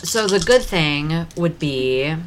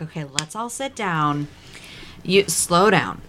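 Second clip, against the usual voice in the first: kindergarten teacher voice. Acted. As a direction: settle a rowdy class gently. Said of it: "I'm putting on my kindergarten teacher voice".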